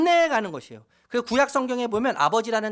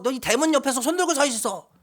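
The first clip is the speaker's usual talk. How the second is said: imitating angry father; 5 semitones higher than usual. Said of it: "저한테 막 화를 내시면서".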